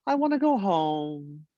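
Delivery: put-on slow, lightly sing-song little boy; a hint of a whiny little kid; sing-songy kid voice. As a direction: mimic a sad preschooler wanting home. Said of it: "a sing-songy voice".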